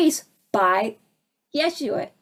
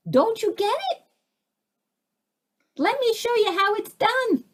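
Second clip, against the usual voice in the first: much higher, gentle teacher's voice; voicing Yeshua; 9 semitones higher than usual. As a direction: speak as a serene saviour showing the way. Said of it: "and says".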